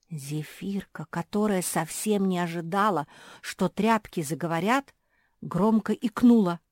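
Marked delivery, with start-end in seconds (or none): none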